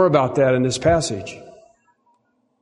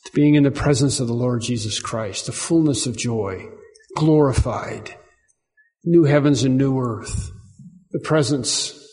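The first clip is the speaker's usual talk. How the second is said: closing prayer. Real, not acted. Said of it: "Let's bow in prayer".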